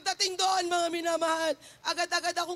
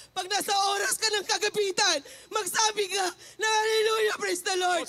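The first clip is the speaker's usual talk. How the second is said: loud, higher preaching shout of the pastor; 4 semitones higher, 4 dB louder than usual. Retold or imitated. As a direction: boom it out like the pastor at the pulpit. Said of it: "Sabi ng mahal na pastor". (sumisigaw na pastor)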